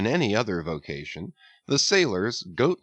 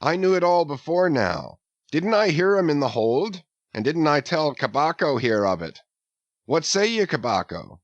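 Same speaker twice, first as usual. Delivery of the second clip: put-on eager young sailor; 6 semitones higher than usual. A narrator's reading. Archie telling Flask he heard them, eager. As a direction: brag to the mate.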